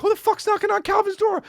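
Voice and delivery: high, outraged yell at the door; indignant yell. Retold or imitated. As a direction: yell who is knocking. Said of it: "I'm like".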